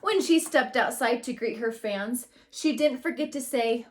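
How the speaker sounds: put-on lively read-aloud voice for a class of kids; story narration. A narrator's reading. Teacher reading a picture book to her class, lively storytelling.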